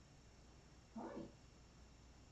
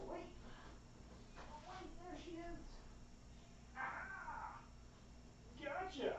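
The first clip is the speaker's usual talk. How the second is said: much higher, much softer delight; hushed high surprise; 14 semitones higher, 14 dB quieter, slower than usual. Real, not acted. Owner quietly spots the cat and grabs her. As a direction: catch her with a tiny gleeful gasp.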